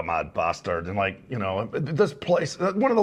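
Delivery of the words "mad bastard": put-on light, lower Scottish accent. Actor quoting bits he threw in, light Scottish accent. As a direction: toss off an ad-lib in mild Scots. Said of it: "I worked on my Scottish accent".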